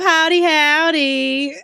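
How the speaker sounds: slow, drawled Southern howdy; Southern accent. Pretend. Streamer greeting a viewer in a Southern drawl. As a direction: stretch each howdy like a cowboy. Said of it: "redeem Southern accent right away".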